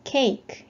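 "cake" with a long ay, final E silent. Shown as a demonstration. Teacher repeating the word for phonics learners, long A and silent E. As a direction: model "cake" clearly as one syllable, long ay. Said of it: "이렇게 발음하시면 되겠죠".

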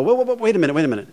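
high whoa, whoa, whoa, then settling; mock alarmed stop. To a caller with a problem, a mock alarmed halt. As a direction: halt the guy like he just said something crazy.

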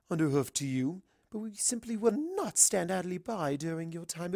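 a hint of a genteel lady; lightly voiced polite unicorn; lightly voiced refined mare. Rarity voiced in story.

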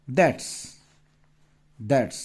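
that's said as one short clipped word; contraction demo. Shown as a demonstration. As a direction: say that's with the final s. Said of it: "দেখো লিখে দিই আগে". (that's স্পষ্ট উচ্চারণ)

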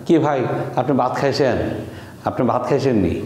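Sylheti-style question, ভাত said as bat; regional Bangladeshi dialect. Shown as a demonstration. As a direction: ask casually in Sylheti dialect, no aspirated bh. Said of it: "ঠিক ভো উচ্চারণ করছে না".

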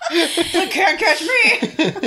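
teasing taunt. Acted. Voicing a fleeing enemy.

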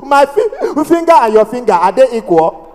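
stammering retort; mock stammer. Seller arguing with the heckler, mock stammer. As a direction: catch on the first sound and restart. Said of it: "family members that stammer".

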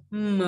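"M" hummed, opening into a short uh; "M" as a linked "muh"; M gliding into schwa. Shown as a demonstration. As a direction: start "M" with closed lips and slide to "muh". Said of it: "Luyến âm M qua thành ơ".

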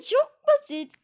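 laughs, then says it's easy; amused laugh into the words. Real, not acted. Gamer laughing at an easy round.

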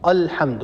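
الحمد said again with a thick, darkened hamza; wrong heavy hamza. Shown as a demonstration. Tajweed teacher repeats the mistake: hamza in الحمد made heavy. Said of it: "هذا لا يصح".

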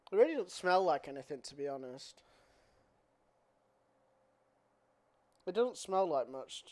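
cup held over mouth; muffled behind container; talking into a tub. Real, not acted. Seen 1: Holds small tub against nose and mouth while talking, sniffing it.

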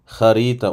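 Harita with a throaty h and a stretched middle a; long middle vowel. Shown as a demonstration. Teacher to students, elongation demonstrated. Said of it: "Ortasında bir de uzatma var".

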